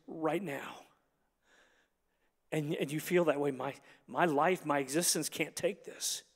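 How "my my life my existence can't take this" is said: soft, low, helpless inner voice; overwhelmed. Acted. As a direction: quietly voice a struggling soul. Voicing a struggling listener's thoughts.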